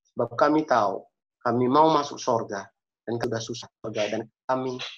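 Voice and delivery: halting, pleading prayer with pauses; earnest prayer. Real, not acted. Preacher asks God for help after choking up, earnest prayer.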